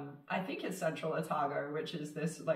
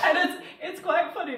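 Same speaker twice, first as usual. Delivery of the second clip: words bubbling through real laughter, pitched up; laughing while talking; 11 semitones higher, 8 dB louder than usual. Real, not acted. Laughing while telling a friend about a bad accent.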